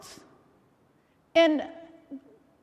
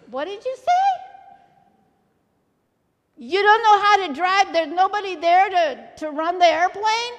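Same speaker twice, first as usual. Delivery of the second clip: raised pitch, disbelieving questions; incredulous pilot; 3 semitones higher, 3 dB louder than usual. Retold or imitated. Cargo pilot answers a stranded passenger's distress call, incredulous. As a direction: question it in mild disbelief, voice lifting.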